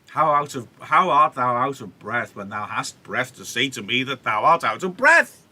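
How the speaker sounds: one long exasperated run, rising at the end; running out of breath. Shown as a demonstration. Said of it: "makes you run out of breath".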